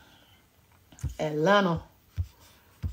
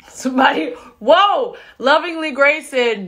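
laughing; 6 semitones higher, 7 dB louder than usual. Real, not acted. Laughing surprise at comment.

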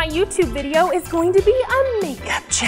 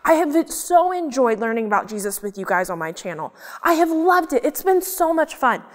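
upset puppet. Acted. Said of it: "so easy to be so mad".

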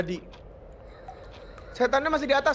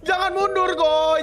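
raised, urgent warning call; 5 semitones higher than usual. Real, not acted. Warns teammate Goy not to back up, urgent warning.

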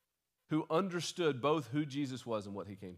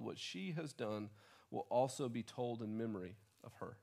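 softer, gentle reading of Jesus' words; Jesus speaking; 5 dB quieter than usual. Retold or imitated. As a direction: let it settle quietly, tender. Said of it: "He says".

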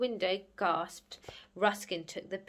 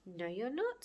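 calm, quieter firm refusal; 4 dB quieter than usual. Acted. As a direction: contradict them calmly. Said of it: "said Ruskin calmly".

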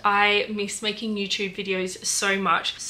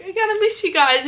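quoting herself, high and fast; 7 semitones higher, faster than usual. Retold or imitated. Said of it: "I was like".

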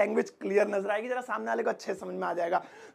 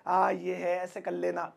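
dull teaching; 4 semitones lower, slower than usual. Shown as a demonstration. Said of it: "अगर मैं ऐसे ही पढ़ाने लगूँ".

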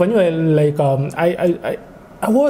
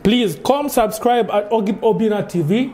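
lightly done Nigerian accent, higher; 4 semitones higher than usual. Shown as a demonstration. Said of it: "in the Nigerian accent".

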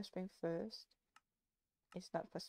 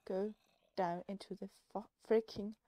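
frustrated yell; 6 dB louder than usual. Acted. Yelling at sheep.

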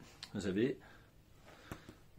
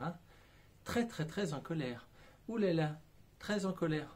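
mock gentle tapping. Shown as a demonstration. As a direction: recite the anger gently, like a soothing mantra. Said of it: "l'école qui dit".

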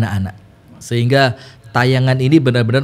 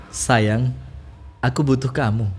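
tender line demo; 5 dB quieter, slower than usual. Shown as a demonstration. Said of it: "Begini bacanya".

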